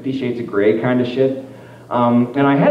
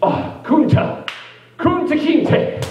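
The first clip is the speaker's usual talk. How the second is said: much higher, slow, breathy put-on voice; mock slave answer; 13 semitones higher, much slower than usual. Roleplay partner giving his name, high and slow. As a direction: answer meekly, drawn out.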